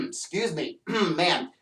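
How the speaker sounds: dry, scratchy throat; frog in throat. Real, not acted. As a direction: talk through a frog in the throat. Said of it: "I got a frog in my throat".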